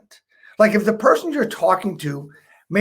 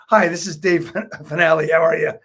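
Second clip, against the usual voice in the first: laugh on your name; 3 semitones lower than usual. Shown as a demonstration. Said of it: "You laugh when you say your name".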